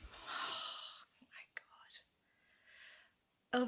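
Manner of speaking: breathless swoon at the jacket; whispered swoon. Real, not acted. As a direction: whisper it with a sigh, very soft.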